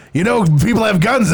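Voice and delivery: lightly voiced gruff old man; a hint of crusty great-uncle; Grunkle Stan voice. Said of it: "Grunkle Stan's more like".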